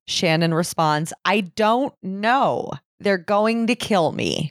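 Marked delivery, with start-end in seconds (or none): 1.2-4.5 slow, higher, imitated plea; retold distressed cry. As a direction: lightly act a frightened caller. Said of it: "Shannon begins yelling".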